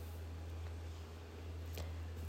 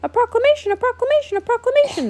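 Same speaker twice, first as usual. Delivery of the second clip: booming warrior king; 4 dB louder, much faster than usual. Acted. Echoing booming proclamation.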